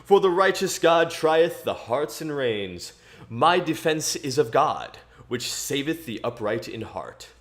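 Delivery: scripture reading. Acted. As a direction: read it like a psalm at church. Resumes reading the psalm.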